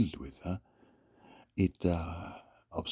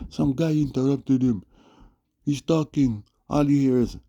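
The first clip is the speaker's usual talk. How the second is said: excited retelling; 7 semitones higher, 6 dB louder than usual. Real, not acted. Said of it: "excited retelling".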